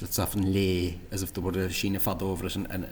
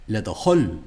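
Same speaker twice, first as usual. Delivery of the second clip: "Le de Hull" with "Hull" punched louder, then falling; wrong intonation imitation; 7 dB louder than usual. Shown as a demonstration. Teacher copying faulty intonation, "Hull" hit hard. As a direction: mimic the tune, loud falling stress on "Hull". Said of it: "the intonation is completely wrong".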